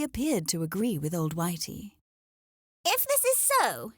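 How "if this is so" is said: muttered. A narrator's reading. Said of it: "Henrietta muttered at last".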